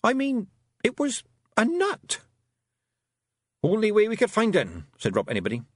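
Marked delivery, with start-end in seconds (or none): 0.0-2.2 put-on raised, puzzled girl's question; asking in disbelief; Tiffany's voice. A narrator's reading. Tiffany questioning the Feegles, puzzled girl voice. 3.6-4.8 raised gruff little Scots pixie, pleased with himself; boastful wee Feegle, a bit louder; Rob Anybody's Scots voice. A narrator's reading. Rob Anybody boasting to Tiffany after the fight, Scots pixie voice. Rob's voice.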